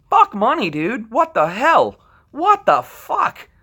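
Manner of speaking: real exasperated what-the; incredulous outburst. Real, not acted. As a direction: stretch it out in total disbelief.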